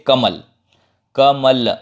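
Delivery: कमल with ल cut short, no vowel after; कमल said as kamal, bare final ल. Shown as a demonstration. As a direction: stop dead on the ल of कमल. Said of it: "ल पे रुक गया".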